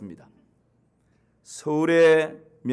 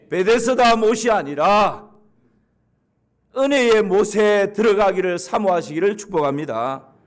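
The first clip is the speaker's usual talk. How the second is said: full-force preaching; 2 semitones higher, 6 dB louder than usual. Acted. Closing preaching.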